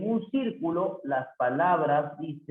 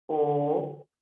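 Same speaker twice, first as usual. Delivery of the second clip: "Poseí" split po-se-í with long gaps; syllable separation; 2 semitones lower than usual. Shown as a demonstration. Teacher showing the separación, "Poseí" in separate syllables. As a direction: hold each syllable of "Poseí" apart. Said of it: "Sería así".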